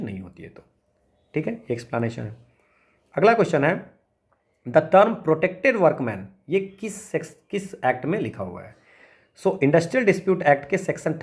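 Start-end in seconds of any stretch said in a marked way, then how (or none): 4.7-6.2 slow, careful reading of the exam question. Acted. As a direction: read it out word by word for students. Reads exam question aloud. (धीमी गति से प्रश्न पढ़ना)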